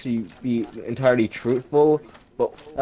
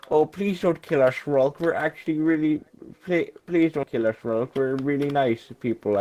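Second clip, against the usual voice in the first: mildly higher, hammed-up pleading family; mock begging; 4 semitones higher than usual. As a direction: beg for your life, half-joking. Family begging Rolk for mercy.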